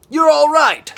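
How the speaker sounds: very high, loud cry of joy; overjoyed cry. A narrator's reading. Iggy seeing his friends safe, very high joyful cry. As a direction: burst with relief. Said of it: "he beamed with delight".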